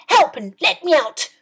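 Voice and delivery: loud cry for help; locked in a cellar, she bellows for help; bellowing. A narrator's reading. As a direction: bellow it out, trapped and desperate. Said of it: "She bellowed".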